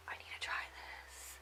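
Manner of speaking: breathy, very soft whisper; whispered thought. Retold or imitated. Quoting her own eager thought.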